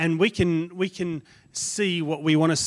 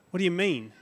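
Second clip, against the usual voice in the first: angry Naaman; 3 semitones higher than usual. Acted. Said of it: "Naaman was angry".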